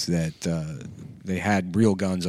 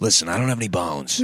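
Tim Dillon impression; faster than usual. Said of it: "Do it more".

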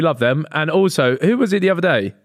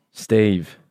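geezer Steve; 6 semitones lower than usual. Pretend. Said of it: "stereotypical geezer name".

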